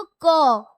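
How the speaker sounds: "क" said slowly, its अ vowel held; drawn-out pronunciation. Shown as a demonstration. Teacher has pupils repeat to hear अ, drawn-out "क". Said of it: "इसको repeat करोगे तो आपको पता चलेगा".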